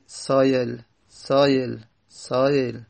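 سایل with the hamza softened halfway toward ya; between hamza and ya. Shown as a demonstration. Teacher modelling the softened hamza for students. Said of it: "بین بین بخونیم".

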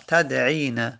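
تدعینا said as tad-'ii-na, no v; contracted form. Shown as a demonstration. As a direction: run تدعینا together with one long "ii".

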